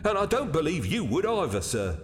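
high-voiced, defensive waiter. Waiter defending himself to a doubting gentleman, defensive.

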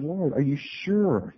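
slow, hesitant querying; mildly sceptical, stretched question; doubtful question to God. Acted. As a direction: draw out the doubt gently.

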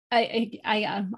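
stumbling over words; tripping on the first word; stutter. Real, not acted. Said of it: "I'm gonna stutter now".

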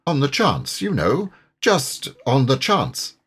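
worried river rat, earnest and warm; a concerned old friend telling bad news; Water Rat voice. Rat continues the story.

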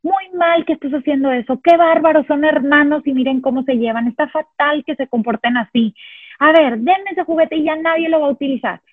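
mock scold the fighting kids; scolding parent. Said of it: "No le estoy diciendo". (regaño exasperado de mamá)

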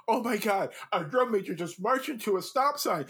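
mock panic. Eighth grader panicking after drum major hits sign, rising mock panic. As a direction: build from alarm to a laughing near-shout. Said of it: "I'm like".

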